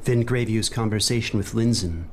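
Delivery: ominous storyteller voice; dark narrator intro; dramatic narration. Acted. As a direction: draw them into the tale.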